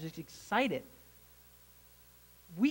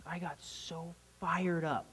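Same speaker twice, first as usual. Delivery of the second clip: breathy whisper; 5 dB quieter, slower than usual. Real, not acted. Unvoiced whisper while telling.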